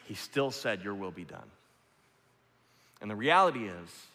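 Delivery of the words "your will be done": soft, lower reverent words; bow and say it softly; hushed prayer. Acted.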